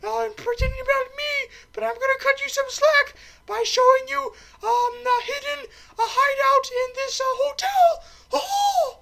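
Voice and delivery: piercingly high cartoon mouse falsetto; Mickey. Mouse showing Bond a hidden hideout, irritating squeaky mouse impression. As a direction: squeak loudly, ending on a high "Oh!". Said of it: "the little mouse is like".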